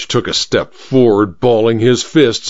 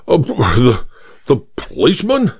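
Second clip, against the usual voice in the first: major recognises the face in the photo, spluttering. Acted. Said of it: "spluttered the major".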